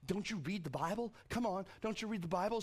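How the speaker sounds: lightly teasing retort; a hint of playful needling; making fun. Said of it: "So he's making fun of them now".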